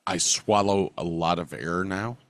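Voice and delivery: stuffy nose, mouth breathing; blocked nose. Real, not acted. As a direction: talk through a blocked nose. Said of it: "I can't breathe through my nose at all".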